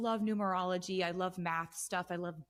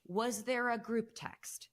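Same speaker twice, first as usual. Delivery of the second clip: higher, slow mock-baffled question; retold bewilderment, pitched up and stretched; amazed reaction; 5 semitones higher, slower than usual. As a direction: act out astonished disbelief, drawing it out. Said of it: "I'd just be like".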